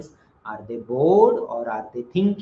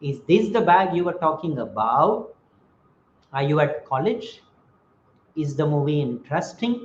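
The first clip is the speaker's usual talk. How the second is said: questions swinging up on about, college and interesting; rising tone. Shown as a demonstration. Teacher giving more examples, rising on about, college, interesting. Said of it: "the voice will be raised".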